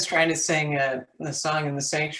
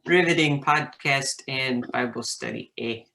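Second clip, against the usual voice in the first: a light, hammed-up Canadian lilt with a tag eh; Canadian accent; 3 dB louder than usual. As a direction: play it folksy Canadian, leaning on each eh. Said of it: "that almost sounded Canadian".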